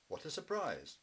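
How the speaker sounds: bright startled exclamation; surprised. Acted. Mummy Bear greeting the fishmonger, surprised exclamation.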